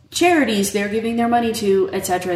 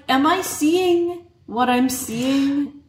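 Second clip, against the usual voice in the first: double take; 6 semitones higher, much slower than usual. Retold or imitated. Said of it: "I'm like".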